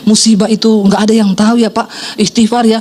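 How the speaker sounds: low, gentle retold comforting; imitating a consoling police officer; soothing consolation. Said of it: "elus-elus suami saya".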